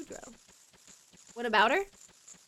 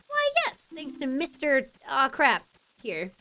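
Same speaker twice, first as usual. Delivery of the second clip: lightly acted royal, high opening; grateful princess; 5 semitones higher, 4 dB louder than usual. Princess thanks the hero, lightly acted gratitude. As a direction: begin high, then thank them with formal courtesy.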